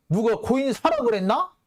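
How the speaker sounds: high-pitched schoolkid comeback; mock childish retort. Host mimics the evasive political answer as a childish retort. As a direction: mimic a petty playground retort. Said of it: "지들 초딩들이 서로 이렇게 멱살 잡고 싸울 때".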